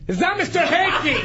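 exasperated, high-pitched protest; indignant. Real, not acted. Teased about the mess on his car, indignant. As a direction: shoot down the joke, riled.

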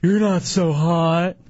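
hammed-up sulky comeback; mock sneer. Mocking the rejected drunk.

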